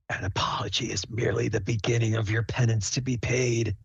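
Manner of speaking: hushed phantom voice, solemn; ominous whisper. Acted. Phantom whispers warn the penitent son, ominous whisper. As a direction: whisper a verdict like a spirit. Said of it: "the whispers do say".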